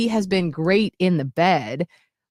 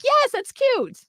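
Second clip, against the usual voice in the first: high chirpy insistence; high insistent; slower than usual. Retold or imitated. Defending panda name to fiance, high chirpy insistence. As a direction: squeak it out defensively. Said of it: "I'm like".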